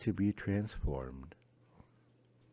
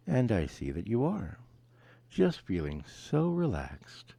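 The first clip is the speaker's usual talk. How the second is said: soothing hypnotist. Acted. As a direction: drift them off gently. Lulling subject to sleep.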